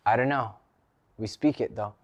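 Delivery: lightly put-on Spanish accent. Quoting an English teacher's reply, in a mock Spanish accent. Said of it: "I don't know why I said it in an accent".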